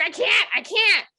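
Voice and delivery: high, loud imitated panic; mock frantic protest. Friend at the wheel told to lie down, mock frantic. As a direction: protest in a hammed-up fluster. Driving friend refuses, acted.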